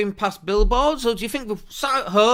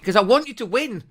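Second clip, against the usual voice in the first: emotional; 3 semitones higher, 4 dB louder than usual. Real, not acted. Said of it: "I'm getting emotional".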